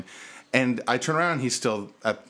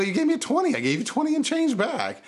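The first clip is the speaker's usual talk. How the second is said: much higher, spelling it out in exasperation; exasperated explaining; 13 semitones higher than usual. Retold or imitated. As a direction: spell out the math to a drunk, exasperated. Correcting drunk customer, exasperated.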